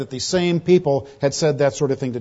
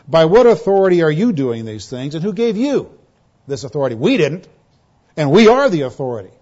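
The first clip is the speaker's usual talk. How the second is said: louder, lofty scorn at a rabble-rouser; disdainful challenge; 5 dB louder than usual. Retold or imitated. Preacher voicing the priests confronting Jesus, loud and disdainful. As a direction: look down your nose and demand answers. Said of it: "They felt this same disdain for Jesus".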